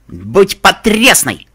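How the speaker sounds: loud, very slow grand proclamation; proud motto. A narrator's reading. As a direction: declaim it like a banner. Inscription read with flair.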